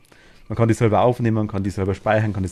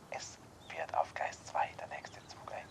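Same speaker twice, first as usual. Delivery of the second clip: announcement voice; 6 semitones lower, 19 dB quieter, slower than usual. Shown as a demonstration. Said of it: "Ich kann auch eine Durchsage machen".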